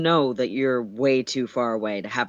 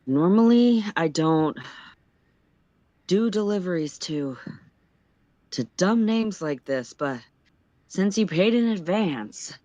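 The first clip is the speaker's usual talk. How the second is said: out of breath; 4 semitones higher than usual. Acted. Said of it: "The guy puffs".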